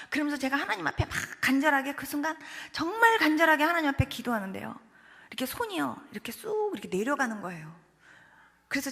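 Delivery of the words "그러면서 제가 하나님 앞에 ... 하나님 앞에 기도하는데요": raised, louder, fervent telling; earnest retelling. Retold or imitated. Preacher telling the congregation of a desperate prayer, earnest and insistent. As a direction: press the words with pleading urgency.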